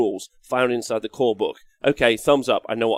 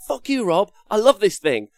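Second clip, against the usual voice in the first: mock indignant fan; 8 semitones higher, 3 dB louder than usual. Acting offended fans answering criticism.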